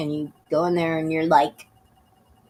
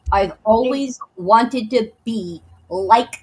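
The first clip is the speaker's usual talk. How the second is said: mocking quote; slower than usual. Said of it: "you just revealed yourself right there".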